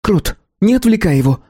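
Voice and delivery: sharp rebuke. A narrator's reading. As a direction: cut him off sharply. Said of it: "прикрикнула на Серёгу Белка".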